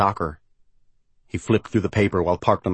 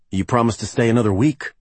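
higher, mildly pleading protest; contained desperation; 4 semitones higher than usual. Acted. Rick objects to her leaving early, contained desperation. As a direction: plead a little while holding it back. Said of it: "trying not to sound desperate".

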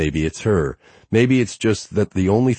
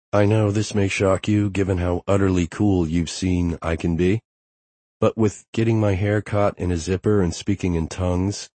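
put-on playful young woman, slightly raised pitch; Harper; 3 semitones higher than usual. Harper voiced by male narrator.

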